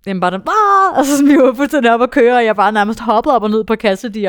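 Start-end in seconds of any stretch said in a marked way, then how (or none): 0.4-1.0 high, loud cry of joy; joyful shout. Retold or imitated. Asked what she felt. 1.0-4.3 higher and louder, still buzzing; excited recall. Real, not acted.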